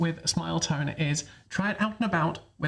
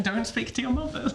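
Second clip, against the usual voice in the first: whispering; 4 semitones higher than usual. Acted. Teasing joke.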